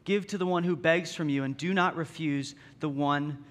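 measured, solemn reading of the passage; scripture reading. Acted. Pastor reading Matthew five to the congregation, solemn scripture reading.

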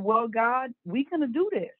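high, fired-up promise to God; telling God we're doing this, fired up and pitched high; fired-up vow. Retold or imitated. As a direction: declare it to God with rising resolve. Defiant vow to God in story.

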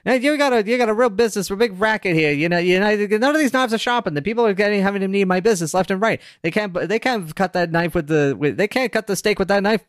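high squeaky salesman. Acted. Squeaky sharpener scoffing at a dull knife. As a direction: squeak out the complaint. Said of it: "My, my squeaky voice is terrible".

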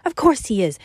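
a touch of outrage, insisting; outraged insistence. Acted. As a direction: fire it straight back at him. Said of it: "she insisted, outraged".

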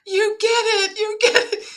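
high, tearful repeated line; choked up. Retold or imitated. Reliving being moved by the photo, high and tearful. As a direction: let the voice crack with emotion.

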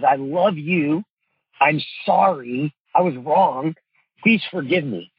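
slow sincere. Shown as a demonstration. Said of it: "three of the most powerful statements".

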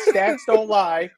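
slow, loud declaration; emphatic shout. Real, not acted. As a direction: bellow it like a slogan. Mock dismissal, then shout.

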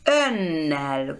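Önnel with a long double n; V becomes N. Shown as a demonstration. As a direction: say Önnel holding the n. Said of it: "por eso cuando yo dije ön".

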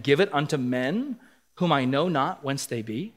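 steady, formal Bible reading; scripture reading. Acted. Pastor reads Nabal's reply aloud, measured and formal. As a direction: read the verses out to the congregation.

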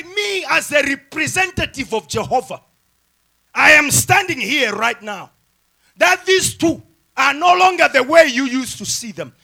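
loud, emphatic officiant; official wedding declaration. Acted. Representative of Jehovah pronounces two married, loud official declaration. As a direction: proclaim it publicly to the whole church. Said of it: "you announce it so officially".

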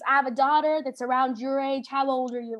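lightly put-on Southern bouncer voice; a hint of Southern dad; Southern accent. Bouncer telling her about his daughter, light Southern accent. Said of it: "I don't know why he's Southern".

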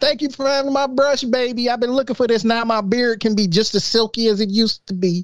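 high cooing voice; doting baby talk. Pretend. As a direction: coo at the brush like a baby. Talking lovingly to brush.

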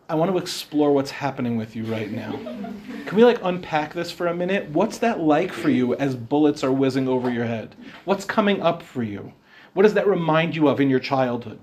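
lightly voiced therapist, pitched a little down; mock therapist. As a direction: gently parody a therapist's probing questions. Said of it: "have a therapist sitting next to you going".

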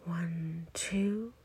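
soft count, lifting on the last number; inhale count. Shown as a demonstration. Guide counting listeners through a breath in, soft rising count. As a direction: count gently up as the breath fills.

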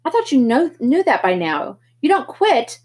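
big brother shouting at Pony; angry older brother. Acted. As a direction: lay down the law, furious. Darry yells back in argument.

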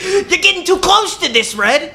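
high loud yell through laughter; mock dramatic yell; laughing shout. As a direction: scold Red while cracking up. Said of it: "the Yellow Bird's like".

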